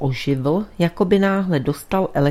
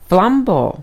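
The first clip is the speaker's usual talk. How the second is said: louder, higher exclamation that falls; calling out; 4 semitones higher, 6 dB louder than usual. A narrator's reading. Priest calling to his friend, exclaiming. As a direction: call out the name with urgency.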